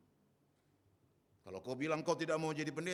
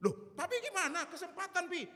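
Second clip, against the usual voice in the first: higher voice of a son, laughing through it; son's voice, laughing. Retold or imitated. Son urging his dad at the restaurant, laughing. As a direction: play the son teasing his father with a laugh.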